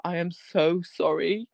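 slow, drawn-out sorry from a guilty dog; lightly hammed remorse; mock apology. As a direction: imitate a contrite Labrador. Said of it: "he does that face".

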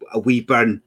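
lightly put-on Scottish accent, saying "wee burn"; a hint of Scottish in "wee burn". Telling his teenage vodka story, light Scottish accent. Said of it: "doing the Scottish accent".

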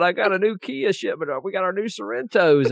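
lightly voiced bad politician impression, a bit high; half-hearted impersonation of a folksy president; Bill Clinton impersonator. Mocking an old car commercial, bad impersonator voice. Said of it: "these bad Bill and Bill Clinton impersonator".

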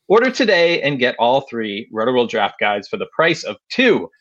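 upbeat ad read voice; infomercial. Acted. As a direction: read it like a sponsor spot. Reads sponsor ad.

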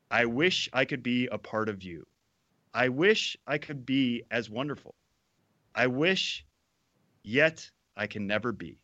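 earnest, yearning recital with pauses; fervent poem reading. Acted. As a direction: recite it like a lovesick poet. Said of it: "the appropriate level of fervor".

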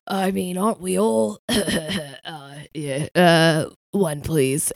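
lightly voiced scratchy British man, a touch nervous; Roy Kent. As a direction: put on a hesitant, gruff male character voice. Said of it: "Roy Kent".

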